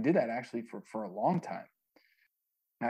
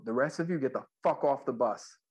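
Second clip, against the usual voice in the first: mildly raised, emphatic order; retold firm order; 4 semitones higher, 3 dB louder than usual. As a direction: stress FUCK while retelling an order. Ordering hangers-on off the bus.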